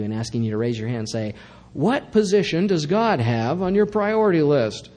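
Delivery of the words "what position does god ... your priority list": mock call-out. Mock calling out to congregation.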